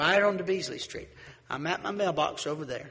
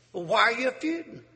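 high, puzzled questioning; questioning outsider; 7 semitones higher, 5 dB louder than usual. Retold or imitated. Stranger pressing the feuding neighbor, high and puzzled. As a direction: ask it like a baffled stranger.

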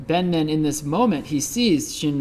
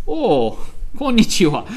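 polite greeting; 6 semitones higher, 7 dB louder than usual. Retold or imitated. Shinran greets the visitor.

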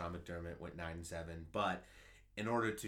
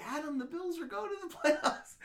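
put-on high, laughing old-lady voice, louder; a gleeful Nana cracking up mid-sentence; imitating excited grandmother; 7 dB louder than usual. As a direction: squeak it out like a thrilled grandma. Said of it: "But she was like".

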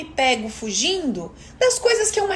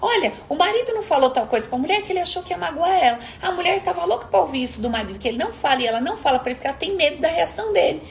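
espanto imitado; 3 semitones higher than usual. Retold or imitated. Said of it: "você vai falar".

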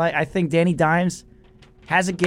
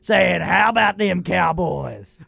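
mock gloating. Cowboys hater imagining the post-holiday show, mock gloating.

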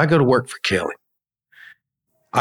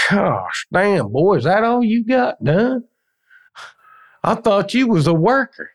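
put-on much higher, scoffing old-man voice; mocking old mason; 9 semitones higher than usual. Old man Ed scoffing at the young mason's work, high mocking voice. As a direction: sneer at the kid's work, pitched way up.

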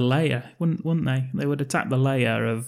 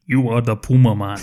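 Danny Trejo line; 5 dB louder than usual. Retold or imitated. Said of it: "What's he gotta say?".

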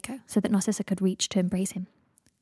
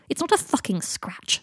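pained snap; 5 semitones higher, slower than usual. Acted. Pained retort.

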